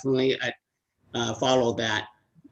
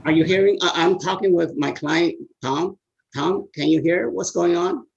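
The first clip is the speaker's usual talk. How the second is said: raised, higher voice to be heard; calling into phone; 5 semitones higher, 4 dB louder than usual. Real, not acted. Lawyer checking her client on the phone can hear, raised voice. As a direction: speak up down a bad phone line.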